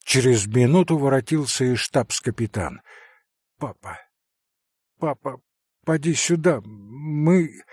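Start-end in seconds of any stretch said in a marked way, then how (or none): 3.6-7.6 excited babbling. Acted. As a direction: babble to his father, breathless. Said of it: "пролепетал ... в чрезвычайном возбуждении".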